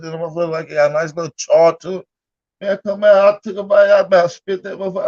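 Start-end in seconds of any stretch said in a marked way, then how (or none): 2.6-5.1 worked-up retelling. Retold or imitated. Retelling a disgusting bite.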